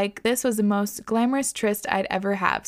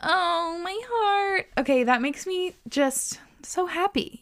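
touched whisper; 9 semitones higher, slower than usual. Real, not acted. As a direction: breathe it out, deeply touched. Touched by listener's love letter.

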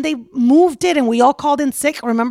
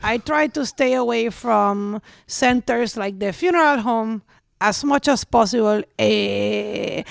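dad impression; slower than usual. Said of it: "impression of your dad".

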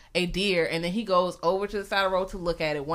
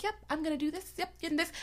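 lightly voiced, higher, soft prim white girl; mock plain white talk; 9 semitones higher, 12 dB quieter, faster than usual. Mocking how someone talks at their parents' house, soft and high. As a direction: say it light and high, a little prissy. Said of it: "you're like".

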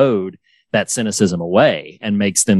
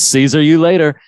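imitating Higgins; 5 semitones higher, 3 dB louder than usual. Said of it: "He says".

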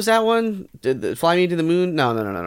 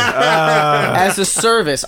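mock formal; much slower than usual.

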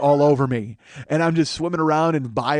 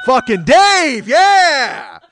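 rock star yell; 9 semitones higher, 8 dB louder, much slower than usual. Retold or imitated.

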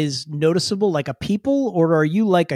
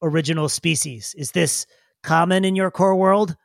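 lightly voiced puzzled digger; formal, pausing little creature; Brillo. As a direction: ask stiffly, feeling for each word. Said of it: "Brilla looks at you and goes".

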